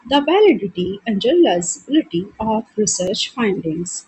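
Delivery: reading the question out slowly and deliberately; slow, measured question read; slow exam dictation. Acted. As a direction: dictate each word for students to copy. Reads exam question aloud slowly.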